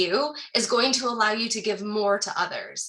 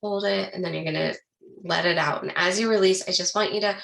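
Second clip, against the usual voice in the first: guided breathing; 2 semitones lower than usual. Acted. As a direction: guide them gently through each breath. Leads a breathing exercise.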